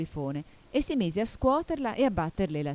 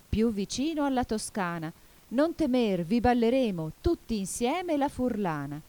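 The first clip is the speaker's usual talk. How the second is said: melancholy song; 3 semitones higher than usual. A narrator's reading. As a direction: recite the song verse, drawing out each refrain ending. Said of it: "cantava adagio adagio, malinconicamente".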